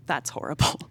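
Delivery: a hushed, horrified whisper; shocked whisper. Acted. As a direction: breathe it out, appalled. Shocked at her own cruel words.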